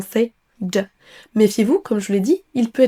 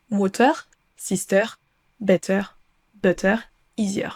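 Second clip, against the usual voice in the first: English words with French final R; French accent. Shown as a demonstration. Teacher showing learners what to avoid, French-accented English. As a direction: read the list as a French speaker would, R sounded. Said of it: "comme on le ferait en français".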